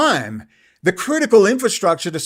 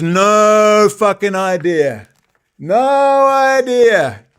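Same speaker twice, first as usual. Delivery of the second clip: emphatic slow; 3 semitones higher, 5 dB louder, much slower than usual. Real, not acted. Ranting about a critic.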